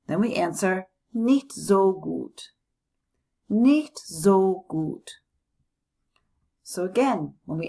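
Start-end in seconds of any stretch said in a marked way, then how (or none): 1.1-2.5 mild gloomy. Shown as a demonstration. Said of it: "having a bad day". 3.5-5.2 mild gloomy. Shown as a demonstration. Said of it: "having a bad day".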